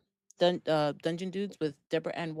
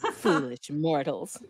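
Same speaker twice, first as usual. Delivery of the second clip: dark lord; 3 dB louder, slower than usual. Pretend. Mock villain after evil cackle.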